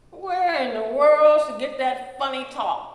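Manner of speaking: a lightly voiced bemused neighbour asking; quizzical. A narrator's reading. Neighbours puzzling over Mrs Proper's speech, mild quizzical tone. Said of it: "folks would ask with quizzical facial expressions".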